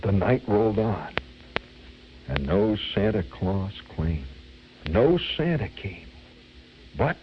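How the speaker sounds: lightly imitated stage solemnity; mock-grave recitation; dramatic reciter. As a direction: intone the verse with suspenseful pauses. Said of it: "in a very dramatic voice".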